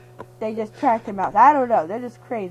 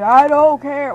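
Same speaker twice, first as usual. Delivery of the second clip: angry shout; 2 semitones higher, 9 dB louder than usual. Acted. Angry hero refusing broccoli.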